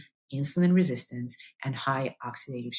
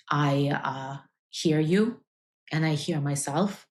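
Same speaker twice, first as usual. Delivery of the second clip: choked up. Real, not acted. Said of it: "you could see that I'm getting emotional".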